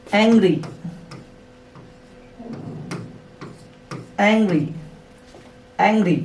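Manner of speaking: एंग्री with a clear ee at the end. Shown as a demonstration. Teacher showing learners the final ee sound. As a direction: finish एंग्री on a long ee. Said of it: "sound आ रहा पीछे ई का".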